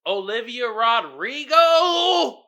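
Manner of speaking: sing-song slow reveal; theatrical name reveal. Real, not acted. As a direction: stretch the name out high for show.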